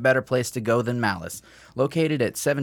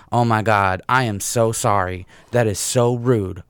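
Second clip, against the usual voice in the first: imitating apology; 4 dB louder than usual. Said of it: "looks back at me and goes".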